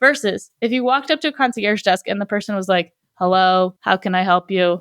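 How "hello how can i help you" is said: put-on bored, flat, unexcited monotone voice. Describing an unexcited concierge, the speaker imitates their greeting in a mock monotone. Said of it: "Like monotone".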